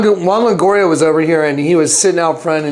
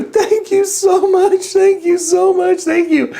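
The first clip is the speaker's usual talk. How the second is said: high, gushing, grateful voice; high sweet thanks; 12 semitones higher, slower than usual. Retold or imitated. Contrast after demon voice.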